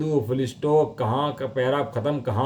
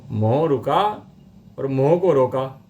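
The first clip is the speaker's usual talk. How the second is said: "मोह रुका", then "को रोका" punched louder; stressed word contrast; 3 dB louder, slower than usual. Shown as a demonstration. Teacher contrasting two near-identical phrases, stressed and spaced. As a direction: set the two phrases apart, leaning on "को रोका". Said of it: "दोनों में एक शब्द का फर्क है".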